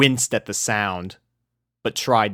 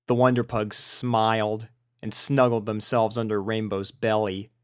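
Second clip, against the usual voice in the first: ordinary delivery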